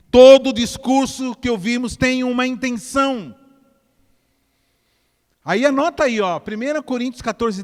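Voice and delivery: emphatic sermon declaration; forceful preaching. Real, not acted. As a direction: drive it home to the congregation, high and loud.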